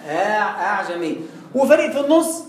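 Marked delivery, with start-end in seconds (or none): 0.1-1.2 "أعجمي" with an eased hamza and no h sound; low demo of "أعجمي" free of h; hamza without h. Shown as a demonstration. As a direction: say "أعجمي" lower, keeping any هاء out of it. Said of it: "فريق كله مش هاء".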